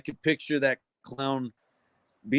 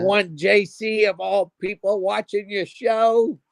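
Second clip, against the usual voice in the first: creepy slow voice; 6 semitones higher, slower than usual. Pretend. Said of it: "These aren't men".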